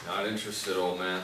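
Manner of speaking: loud bratty brush-off; loud dismissive. Acted. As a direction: shout him off. Boy brushing off old man.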